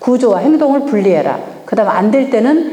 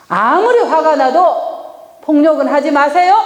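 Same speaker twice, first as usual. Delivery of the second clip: firm, a little higher warning; firm demo; 4 semitones higher than usual. Shown as a demonstration. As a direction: state the rule firmly. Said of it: "이렇게 얘기를 해야 돼요".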